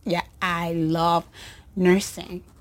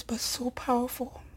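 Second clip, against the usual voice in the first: choked whisper; 4 semitones higher, 11 dB quieter than usual. Real, not acted. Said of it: "I'm not getting emotional".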